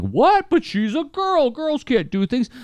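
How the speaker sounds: high, slow sneering schoolboy; mock a bratty kid's scoff. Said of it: "doing the whole, like".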